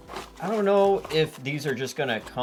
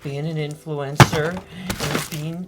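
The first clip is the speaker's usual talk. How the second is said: pitched-up parody of an influencer; mock stressed influencer; 5 semitones higher, 5 dB louder than usual. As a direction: play an influencer under stress, higher voice. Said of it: "it is very stressful being an influencer".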